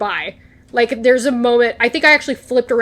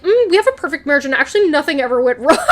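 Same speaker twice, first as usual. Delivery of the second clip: laughing mock denial; 3 semitones higher, faster than usual. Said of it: "he's like".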